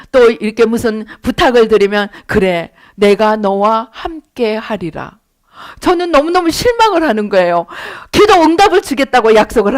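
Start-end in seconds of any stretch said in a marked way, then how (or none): 2.3-5.2 God's calm answer. Retold or imitated. God's answer voiced, slow.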